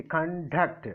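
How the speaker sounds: con-DUCT, second syllable weighted; stress on second syllable. Shown as a demonstration. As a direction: break before the D and lean on DUCT. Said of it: "Before D I kept the".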